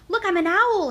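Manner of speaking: high, loud hooting cub; owl hoot. A narrator's reading. Little Bear flaps his arms as an owl, high loud hoot. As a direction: hoot it loudly like an excited owl. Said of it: "he hooted".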